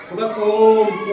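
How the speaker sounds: ओम drawn out very slowly. Shown as a demonstration. Teacher chants ओम to show a long vowel. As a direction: hum ओम long and steady. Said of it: "ओम भी वही चीज है".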